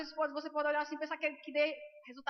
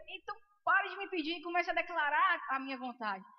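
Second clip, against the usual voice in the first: forceful raised preaching voice; commanding; 3 semitones higher, 4 dB louder than usual. Retold or imitated. Holy Spirit ordering her to declare healing, commanding.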